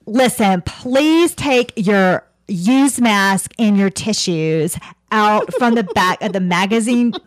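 imitated Southern flight attendant, deliberate pace; lightly put-on Southern accent. Flight attendant telling passengers to clear used masks, Southern accent. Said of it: "more of a Southern accent".

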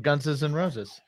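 "Guns" given an extra syllable, "Gunses"; teasing mispronunciation. Retold or imitated. Co-host teasing about the connection, "Guns" as "Gunses". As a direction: say "Guns" as "Gunses", keeping the joke going. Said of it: "who pluralizes guns?".

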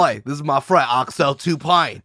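British movie-villain sidekick; put-on British tough-guy accent. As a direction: introduce him like a British henchman. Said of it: "say it like a British guy".

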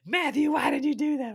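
high, loud mock scolding shout; grandma yelling. Grandma scolding the boys after the hill. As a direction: shriek it like an angry grandma. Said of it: "she's screaming at us".

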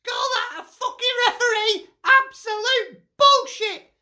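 shouting at the referee in real anger; furious rant. Real, not acted.

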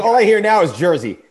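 laughing teasing remark. Real, not acted. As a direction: tease him through a laugh. Host teases about Jersey accent.

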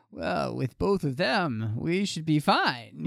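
put-on slow, lightly done Russian accent; a deliberately bad Russian accent, slowly; mock Russian official, slow and heavy-handed; awful Russian accent. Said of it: "that's an awful Russian accent".

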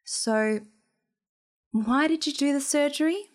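measured question, lifting in pitch at the end; lightly put-on composure; feigned calm. A narrator's reading. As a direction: ask casually, holding the anger back. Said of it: "asked in feigned calm".

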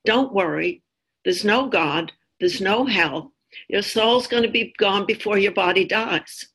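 calmly reassure, with understated delivery; quite calm. Retold or imitated. Zarathustra answers the dying tightrope walker, quite calmly. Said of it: "quite calmly".

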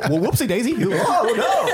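Katharine Hepburn. Acted. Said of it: "I was accidentally doing Katharine Hepburn".

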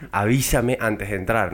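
slow spelled-out request. Retold or imitated. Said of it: "Pero dime, dime, marico".

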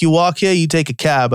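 lightly imitated Boston local; a touch of Boston accent, dropped R's. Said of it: "this is very stereotypically Boston".

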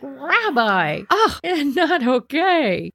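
lightly voiced startled old lady; a hint of a flustered grandma. Old lady being licked by the bear, mildly flustered. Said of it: "she's like".

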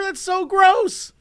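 slow, high, drawn-out disgust. Retold or imitated. Narrator telling the man off, slow and disgusted. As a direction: stretch out the revulsion.

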